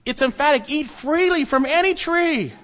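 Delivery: loud, high and forceful, stressing "freely" and "any"; emphatic command. Shown as a demonstration. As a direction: drive home "Eat freely from any tree" as an emphatic command. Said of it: "It's emphatic in God's command".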